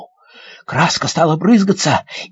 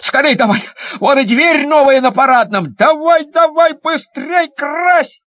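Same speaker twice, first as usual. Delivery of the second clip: calling out; 7 semitones higher than usual. Acted. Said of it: "покрикивать".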